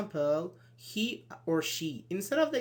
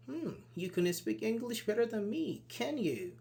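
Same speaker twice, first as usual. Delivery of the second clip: doubtful, pitched up at the start; disbelieving; 4 semitones higher than usual. Shown as a demonstration. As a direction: sceptical echo with a doubting hum. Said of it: "Disbelief, "I don't believe that's correct".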